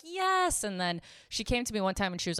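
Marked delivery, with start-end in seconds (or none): 0.0-0.6 high, drawn-out relieved yes; imitated new girl. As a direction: mimic her finally being understood, high-pitched. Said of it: "And she was like".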